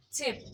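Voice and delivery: चिप with a clean ch and a short i; example word demo. Shown as a demonstration. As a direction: model चिप, the word for home. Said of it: "जिसके start में ये आएगा चिप".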